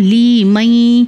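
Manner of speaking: لی مئی slowly, with the م merged smoothly; idgham merge. Shown as a demonstration. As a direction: blend لی مئی gently for pupils. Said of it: "ادغام کا قانون".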